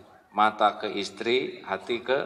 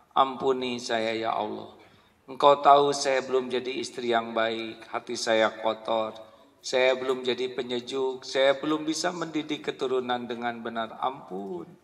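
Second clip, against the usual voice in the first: repentant prayer; 4 dB quieter than usual. Acted. Voiced wife's repentant prayer.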